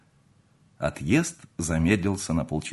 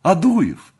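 high, astonished cry of greeting; high-pitched excited reunion cries; joyful exclamation; 12 semitones higher, 6 dB louder, slower than usual. A narrator's reading. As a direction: call out each name in delighted surprise. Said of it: "воскликнули они враз".

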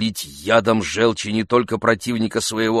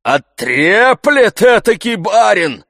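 indignant servant; 13 semitones higher, 9 dB louder, slower than usual. Acted. Zakhar indignant.

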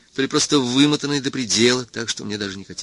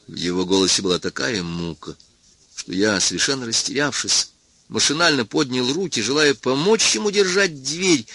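plain reading voice

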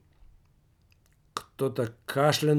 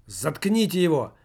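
shout; 3 semitones higher than usual. Acted. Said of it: "выкрикнул кто-то".

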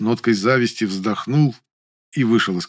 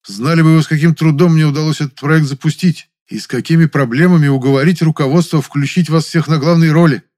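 громко и горячо; напористо выложить обиду; возмущённо убеждает; 7 semitones higher, 7 dB louder than usual. A narrator's reading. (Муля горячо упрекает актрису)

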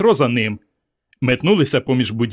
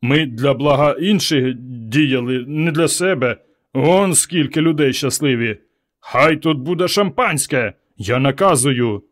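commanding. Acted. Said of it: "вдарив кулаком по столу Петро".

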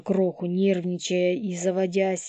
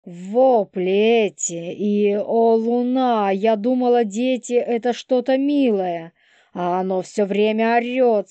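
shrill complaining woman; 5 semitones higher, 7 dB louder than usual. Acted. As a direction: whine it out in disgust. Polina voiced by narrator.

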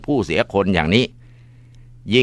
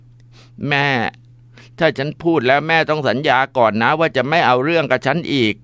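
timid plea; 6 semitones higher than usual. Acted. Frightened daughter bargaining.

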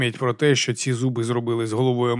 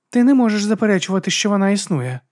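muttered; 8 semitones higher, 3 dB louder than usual. Acted. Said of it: "пробурмотіла Батиста".

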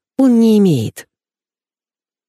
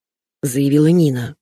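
ordinary delivery, nothing marked

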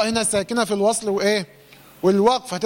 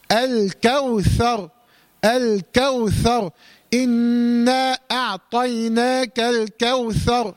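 slow, measured Quran recitation, light kaf in الكوثر; model recitation; much slower than usual. Shown as a demonstration. Teacher modelling the verse for the student to copy. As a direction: recite الكوثر slowly with the right. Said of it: "هكذا".

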